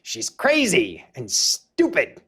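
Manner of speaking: put-on slow, drawn-out old man line reading; lightly voiced Stan Lee, slow and careful. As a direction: spell out each word like a confused old man. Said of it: "he goes".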